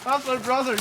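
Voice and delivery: high, slow hammed-up alarm; mock dismay. Bob seeing Dave wipe out, high mock alarm. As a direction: drag it out in goofy horror.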